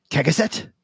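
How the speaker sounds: high, sharp questioning of the name; startled question. Acted. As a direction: ask it in disbelief.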